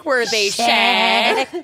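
put-on slow, drawn-out Minnesotan accent; milk the Minnesotan vowels slowly. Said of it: "their worst Minnesotan accents".

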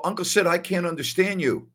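mock-exasperated nephew; retold complaint. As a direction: plead that you're lost, voice lifted. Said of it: "I'd go".

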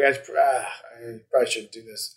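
hushed, quick muttered self-doubt; tiny inner voice. Retold or imitated. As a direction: mumble it quickly under your breath, as if to yourself. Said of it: "that tiny voice".

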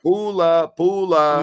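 loud, high, cheerful call of "Bula"; called greeting. Real, not acted. Host calls out to Fiji viewers, loud and high. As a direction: shout the greeting out to the fans.

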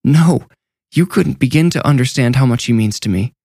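a touch of sobbing through the words; the nurse sobbing her answer up through the trap door. Acted. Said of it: "Her voice was wet as she sobbed".

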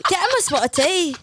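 laughing posh British advice; mock British accent. Host giving silly advice in mock British. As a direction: offer tea like a twee Brit. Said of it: "that accent really".

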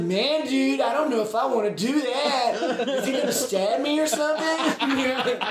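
half-laugh it out, mock scared; laughing nervous. Rock singer nervous about superfan, laughing mock worry. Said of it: "He said".

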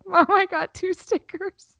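put-on high, slow, proud child voice; a high kid announcing her prize; little girl's voice. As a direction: play a five-year-old showing off.

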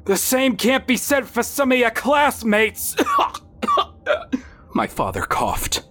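high, measured fatherly voice; father character voice. A narrator's reading. Father questioning his son at bedside, high measured voice. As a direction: voice the father pitched well up, steady.

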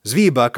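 Zwieback as ZVEE-buck; German pronunciation. Shown as a demonstration. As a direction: say Zwieback with a long EE first. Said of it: "it's pronounced Zwieback in Germany".

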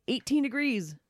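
"Eighteen" stretched high in disbelief; incredulous exclaim. Acted. Exclaiming at the temperature.

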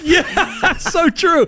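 high, cracked-up agreement; tickled and laughing, pitch way up. Real, not acted. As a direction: agree through real laughter. Laughing at the impression of him.

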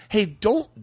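high-pitched retold objection; mildly upset, voice pushed up; a little upset. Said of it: "I actually got a little upset".

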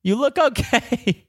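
put-on very high, slow old lady voice; old lady reassuring a runner; imitating old lady. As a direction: stretch it out sweetly. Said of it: "she goes".

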